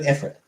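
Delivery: Ifrit said "IF-rit"; common mispronunciation. Shown as a demonstration. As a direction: say Ifrit with a short, reduced last syllable. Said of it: "everybody pronounces it".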